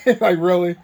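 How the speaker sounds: a laugh bubbling into Really; half-laughing, can't believe it; laughing disbelief. Retold or imitated. Dawn laughs in disbelief at the early-arrival joke.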